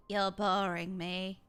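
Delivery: slow, bored villain drawl; Zenos impression. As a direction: lightly imitate a bored emperor's son. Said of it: "Zenos is like".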